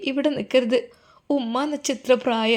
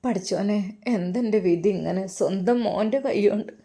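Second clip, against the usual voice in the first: mother sobbing; 3 semitones lower, 5 dB quieter than usual. Acted. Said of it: "ഉമ്മ തേങ്ങിക്കരയുകയാണ്".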